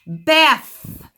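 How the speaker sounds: bath ending in an airy th; voiceless bath. Shown as a demonstration. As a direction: end bath with breath, no buzz. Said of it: "put your hands on your throat".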